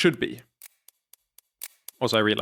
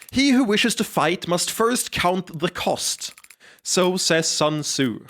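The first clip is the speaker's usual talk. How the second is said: grand quote; 5 semitones higher, slower than usual. Acted. Character quotes Sun Tzu.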